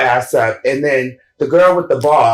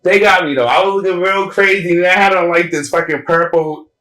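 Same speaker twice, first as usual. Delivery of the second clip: excited; 5 semitones higher than usual. Real, not acted. Laughing at her own look.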